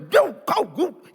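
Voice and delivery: sudden high, loud scolding bark; acted outburst, high-pitched jab; mock snapping. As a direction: snap at a partner in mock anger. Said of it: "bentakan, apalagi".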